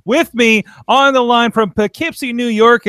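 a talk show host welcoming listeners in announcer voice; announcer intro. Acted. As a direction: boom it out like a radio host. Radio show intro hype.

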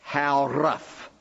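a light imitation of a thick Afrikaner accent, slow. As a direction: retell the farmer's challenge in a mild Afrikaner accent. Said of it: "with this thick Afrikaner accent".

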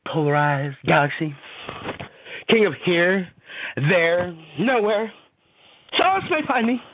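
poetry reading. Acted. Streamer reads his poem Insatiable Tribulation to viewers, dramatic recital.

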